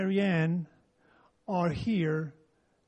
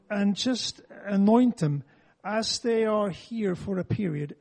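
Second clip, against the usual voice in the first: earnest prayer, opening louder then settling; spoken prayer; 5 dB louder than usual. Real, not acted. Praying for Ray and Marianne as they arrive, spoken prayer. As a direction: pray aloud over them. Prays aloud for visiting couple.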